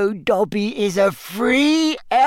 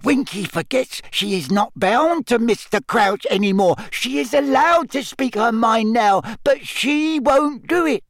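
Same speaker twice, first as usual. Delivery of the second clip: high squeaky elf voice; eager little elf; house elf voice; 5 semitones higher than usual. Acted. Dobby elf voice.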